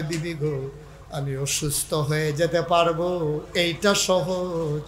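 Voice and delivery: sing-song husband's plea; melodic preaching. Acted. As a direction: draw out phrase endings, swelling on the last note.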